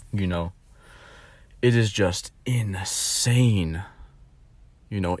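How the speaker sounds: hushed whisper, slow. Real, not acted. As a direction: breathe it out as a whisper. Despairing aside to viewers.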